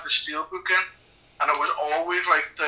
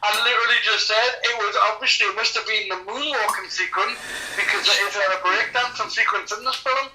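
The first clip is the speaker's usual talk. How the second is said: higher-pitched, indignant insistence; quick, exasperated self-defence; exasperated protest; 5 semitones higher, faster than usual. Real, not acted. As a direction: protest that you were ignored, voice raised in pitch. Told to shut up, protesting.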